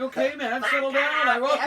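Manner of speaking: calm him down while cracking up; laughing placation. Retold or imitated. Storyteller soothing the panicked man, amused placation.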